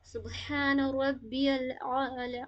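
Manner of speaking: very slow, with a clear ain in الاعلی; slow recitation demo. Shown as a demonstration. Teacher models the ain sound for students. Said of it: "عین کی sound کو بھی نکالنا ہے".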